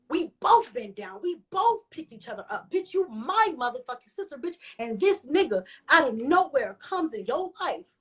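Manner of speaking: retold upset plea to a sister, stretched words. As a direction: plead with her, indignant and hurt. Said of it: "and I'm upset".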